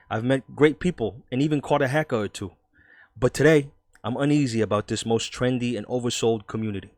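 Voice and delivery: put-on New York newspaper columnist; New York accent. Vlogger voicing a skeptical 1995 journalist, New York accent. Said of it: "I'm gonna do a New York accent".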